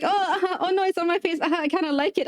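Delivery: high, giggly mimicry of the client; mock-flustered, with little laughs between phrases; imitated giggling. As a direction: replay her laughing reaction, pitched well up.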